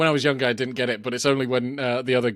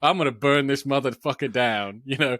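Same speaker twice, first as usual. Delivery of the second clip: mock ranting gangster. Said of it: "I love that speech".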